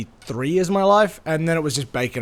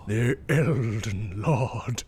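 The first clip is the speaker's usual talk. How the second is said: mock epic narrator; 3 semitones lower, 6 dB quieter, much slower than usual. Echoes the game narrator.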